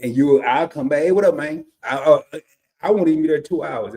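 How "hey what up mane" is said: slipping into Southern "mane" for "man"; Southern accent. Retold or imitated. Back home two hours, greeting in a Southern accent. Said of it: "I'm right into it".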